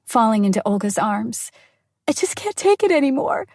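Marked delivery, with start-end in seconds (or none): 2.1-3.5 bursting into tears. Acted. Woman breaks down to her friend in the car, tearful. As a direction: pitch climbing high as she breaks down. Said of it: "I burst out in tears again".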